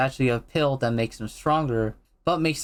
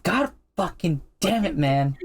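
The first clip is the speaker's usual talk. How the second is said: higher-pitched, exasperated cop impression; Jim Gordon; 5 semitones higher than usual. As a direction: act out a cop losing patience. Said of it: "Jim is just like".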